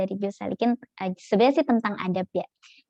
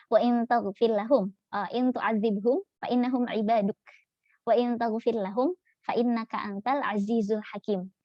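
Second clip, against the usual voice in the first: slow, measured recitation of the verse; Quran recitation. Acted. Teacher quoting the prophet's closing words, slow recitation. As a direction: recite each phrase slowly and reverently.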